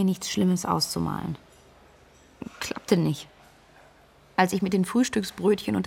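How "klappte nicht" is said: breathy whispered aside; hushed inner voice. Acted. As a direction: whisper it to yourself, resigned.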